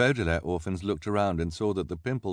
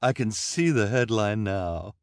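slow, louder fawning reporter voice; gushing reporter; 4 dB louder, slower than usual. A narrator's reading. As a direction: spell out the headline with relish.

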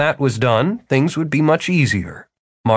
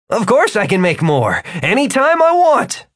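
put-on high, defensive young man; bluffing, a touch higher; Martin voice; 9 semitones higher, 3 dB louder than usual. Martin speaks.

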